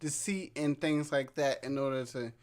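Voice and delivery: slightly slurred, tipsy speech. Real, not acted. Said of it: "Who is hard to speak when you drunk".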